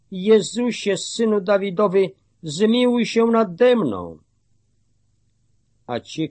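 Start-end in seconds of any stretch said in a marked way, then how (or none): 0.1-4.2 raised, high-pitched plea; calling out. A narrator's reading. Blind beggar calls to Jesus for mercy, pitched high. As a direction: call out high, without really shouting. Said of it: "i zaczął wołać".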